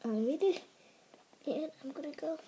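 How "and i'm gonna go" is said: quick excited whisper. Real, not acted. Kid plans to surprise Angelina, fast whisper. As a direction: whisper fast, keeping it secret. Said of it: "So I have to be quiet".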